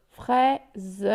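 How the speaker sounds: "Fraise" split as frai-ze; syllable by syllable. Shown as a demonstration. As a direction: separate the final -ze of "Fraise". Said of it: "où se trouve la syllabe". (« Fraise » découpé, frai-ze)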